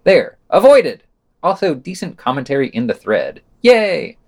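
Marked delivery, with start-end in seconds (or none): 0.0-1.0 rising higher and louder, smug; mock triumphant. Real, not acted. Host teasing the author's word choice, mock triumphant. Pretends to skip a correction. 3.6-4.2 a high, louder ironic yay; mock cheer. Real, not acted. Host wryly praising the comment thread, mock cheer.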